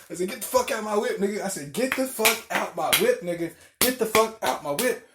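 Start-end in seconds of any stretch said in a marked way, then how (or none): 0.3-1.4 higher-pitched mock yell; retold screaming. Driver throwing passenger out of the car, mock yelling. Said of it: "I was screaming at this nigga". 1.7-5.1 raised, higher mock yell; retold screaming. Driver ordering passenger out of his car, mock yelling. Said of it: "Bro, I was screaming at this nigga".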